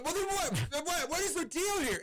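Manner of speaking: retelling his own baffled protest in a high strained voice; exasperated. Retold or imitated. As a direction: squeal it out in disbelief at the staff. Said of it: "I'm like".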